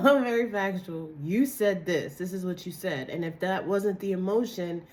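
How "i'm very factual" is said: laughing it out, louder. Shown as a demonstration. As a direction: say it through a laugh.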